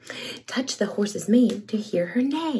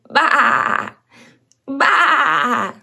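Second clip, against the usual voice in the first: 1 baa like a lamb. Acted. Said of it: "Can you baa like a lamb?".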